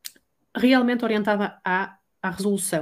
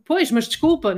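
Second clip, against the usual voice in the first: higher and louder, an aggressive "Pois, mas desculpa"; aggressive apology; 7 semitones higher, 5 dB louder than usual. Shown as a demonstration. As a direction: throw the apology back like a challenge. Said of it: "o tom, de agressividade".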